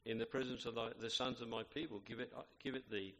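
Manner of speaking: measured, solemn Bible reading; scripture reading. Acted. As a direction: reverent King James reading. Reads scripture aloud.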